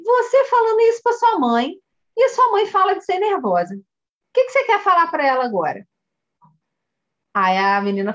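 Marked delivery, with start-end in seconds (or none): 0.0-5.9 put-on high-pitched coaxing question to a child; acted coach talking to a little girl; coach addressing a child. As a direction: prompt a child, pitch raised then easing down.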